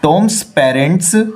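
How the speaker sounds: very slow, word by word; slow read-aloud. Shown as a demonstration. Teacher rereading the corrected sentence, very slowly.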